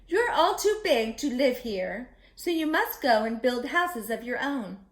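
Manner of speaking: stern mother pig. Acted. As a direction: warn them like a firm mama. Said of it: "Mama Pig said".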